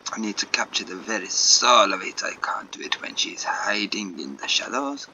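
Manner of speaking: dramatic artist in a put-on French accent. Artist explaining the painting's needs to Jacob, French accent. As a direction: insist in a rough French accent. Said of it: "so many shit French accents".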